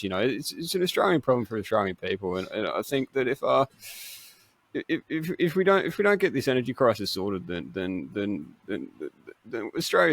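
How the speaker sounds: halting politician, stammering and hedging; Peter Dutton impression. Host doing his Peter Dutton for the podcast, stumbling. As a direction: hem and haw like a cornered politician. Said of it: "This is my Peter Dutton".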